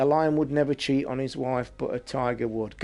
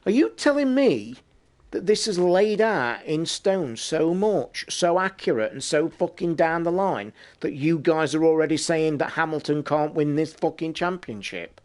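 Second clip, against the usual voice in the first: higher, disbelieving rant at the TV; incredulous outburst; 3 semitones higher than usual. Retold or imitated. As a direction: argue back at the commentator, higher. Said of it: "And I'm, like, sat there".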